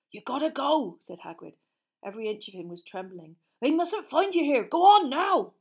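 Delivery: loud, rough half-giant ordering them away; Hagrid's gruff voice. A narrator's reading. Hagrid sending the children back to the castle, loud and gruff. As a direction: boom it out like a big upset gamekeeper.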